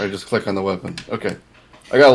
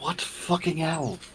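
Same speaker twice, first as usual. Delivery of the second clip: very hushed, pitched-up mutter under the breath; 8 semitones higher, 10 dB quieter than usual. Reacting in character to an owl being pointed out: muttered under breath. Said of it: "under my breath".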